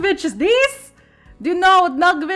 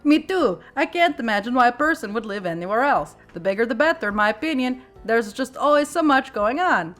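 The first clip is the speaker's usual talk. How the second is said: eager gushing; 3 semitones higher, 5 dB louder than usual. Acted. Narrator voice of heroine, eager.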